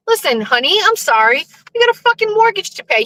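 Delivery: lightly voiced husband, fast at the end; a hint of an irritated husband; mock husband. Wife mimicking her husband's complaint about the mortgage. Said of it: "If your husband says".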